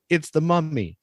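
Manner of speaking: high-pitched mock alarm; hammed-up horrified announcement; professor's alarmed movie line. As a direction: blurt it like a B-movie character spotting a monster. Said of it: "this guy went from".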